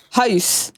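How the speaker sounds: imitating his Jamaican-sounding "house"; imitated accented house. Teasing Void over how he says things, imitated "house". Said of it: "some of the words he says are just very Jamaican".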